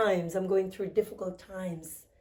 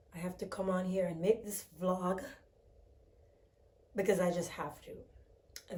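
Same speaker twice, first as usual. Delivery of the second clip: hoarse and groggy; 9 dB quieter than usual. Real, not acted. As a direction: drag the words out groggily. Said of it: "the groggy voice".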